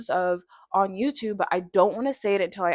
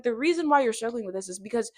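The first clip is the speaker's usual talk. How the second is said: scolding herself; 6 semitones higher than usual. Retold or imitated. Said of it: "But I'm like".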